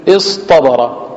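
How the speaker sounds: اصطبر drawn out slowly, each sound set apart; slow demonstration. Shown as a demonstration. Teacher slowly showing students the sounds of the word. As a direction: spell out اصطبر slowly for the class. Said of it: "لاحظتوا الفرق بين مخرج الأولى والثانية".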